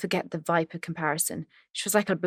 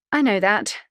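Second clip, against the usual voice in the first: cheery; 2 semitones higher, 5 dB louder than usual. Acted. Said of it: "she replied cheerily".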